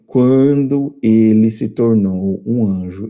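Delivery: deliberate, drawn-out reading for emphasis; slow emphatic rereading. Shown as a demonstration. Preacher rereads a quotation so nobody misses it, slow and emphatic. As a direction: read it slowly, spacing out each word. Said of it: "leia de novo".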